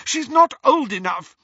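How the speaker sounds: high, loud scolding; angry motherly telling-off; mother's shout. A narrator's reading. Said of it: "shouted Missus Weasley".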